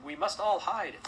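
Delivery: high, loud plea to the crowd; urgent command. Acted. Host telling guests to hide from wolves, urgent command. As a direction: urge everyone with alarm.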